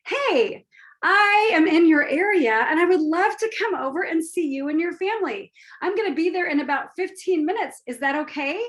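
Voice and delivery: lightly voiced eager caller; friend on the phone. Good friend phoning to invite herself over, cheerful. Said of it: "one of your good friends who says".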